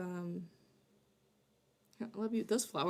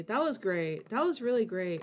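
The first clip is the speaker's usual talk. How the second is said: flat deadpan. Shown as a demonstration.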